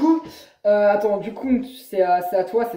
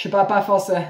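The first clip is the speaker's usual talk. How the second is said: put-on American accent in French; mock American-accented French; 2 semitones lower than usual. Shown as a demonstration. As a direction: say it like an American tourist, Rs softened. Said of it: "l'accent américain comme ça".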